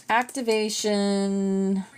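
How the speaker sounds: whispered. Real, not acted. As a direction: whisper it slowly. Whispers a track name.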